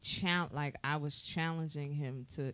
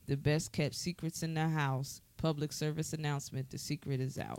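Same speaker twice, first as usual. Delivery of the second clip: reading song lyrics aloud; reciting lyrics. Shown as a demonstration. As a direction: recite the verse in rhythm. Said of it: "So verse two says".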